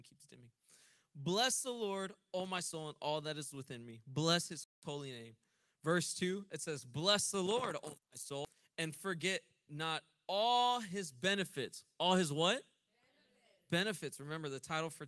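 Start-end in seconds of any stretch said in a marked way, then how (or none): 1.1-5.4 preaching scripture. Acted. Preacher reading Psalm to congregation, emphatic. 6.8-14.2 preaching scripture. Acted. Preacher reading Psalm to congregation, emphatic.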